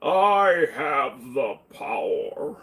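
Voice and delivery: slow, drawn-out hero proclamation; He-Man. Retold or imitated. Streamer quoting He-Man to chat, slow and drawn-out. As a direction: stretch it out like a cartoon hero. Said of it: "Who remembers He-Man?".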